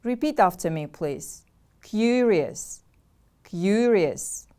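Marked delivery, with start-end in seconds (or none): 1.8-2.8 "Curious" with a stretched, stressed CU; stress on first syllable. Shown as a demonstration. Teacher models the word for repeating, stress on CU in "Curious". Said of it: "The stress is on the first syllable". 3.4-4.5 "Curious" with a stretched, stressed CU; stress on first syllable. Shown as a demonstration. Teacher models the word for repeating, stress on CU in "Curious". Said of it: "The stress is on the first syllable".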